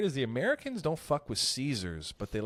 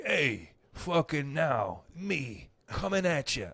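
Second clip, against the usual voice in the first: hammed-up actor; slower than usual. Parodying acting class scenes.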